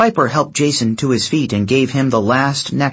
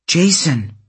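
calling out; 6 semitones higher than usual. A narrator's reading. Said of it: "Piper called".

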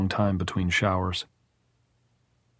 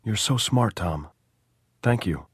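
weary gratitude. A narrator's reading. Jordan thanking Tom for promising poetry, wearily grateful. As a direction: let the thanks sink wearily. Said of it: "smiled at him with weary, horrible gratitude".

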